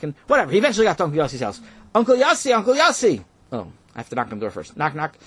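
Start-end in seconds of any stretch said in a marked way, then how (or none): 1.9-3.2 calling out. Acted. Calling out at the door.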